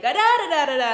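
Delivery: loud, high angry babble; imitating her old angry self yelling; mock angry yelling. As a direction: ham up a shouting match. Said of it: "the old me would be like".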